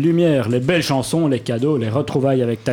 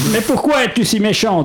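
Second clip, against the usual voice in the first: mock-innocent question; 6 semitones higher than usual. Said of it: "demandèrent le chien et le hamster".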